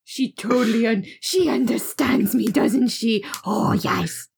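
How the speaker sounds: cooing at a cat, partly whispered; baby talk aimed at a kitten. Acted. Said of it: "my talk to cats voice".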